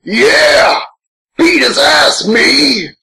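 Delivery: high, excited cheer for himself; mock cheering. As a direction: whoop like a fan egging on the fight. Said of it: "I'm like".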